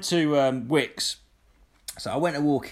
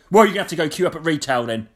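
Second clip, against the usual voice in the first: fast, louder, snotty staff voice; 3 semitones higher, 6 dB louder, faster than usual. Retold or imitated. B and Q staff sending the customer to the retail queue, snotty and fast. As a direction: talk down to him like he's a nuisance. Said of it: "Talk to me like that".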